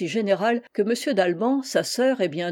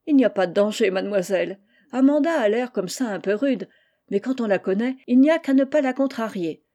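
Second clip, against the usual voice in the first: laughing Moutonnet; 2 semitones higher, 4 dB louder than usual. Acted. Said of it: "Moutonnet, riant".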